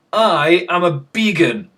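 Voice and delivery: "I am a began" said slow and proud; cheerful announcement. Shown as a demonstration. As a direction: announce "began" slowly, like good news. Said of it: "I should say that in a more depressive way".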